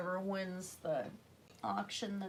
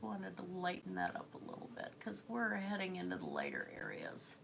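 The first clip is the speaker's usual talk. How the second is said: soft whisper while painting; 6 dB quieter than usual. Real, not acted. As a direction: breathe the words out, no voice. Quiet painting commentary.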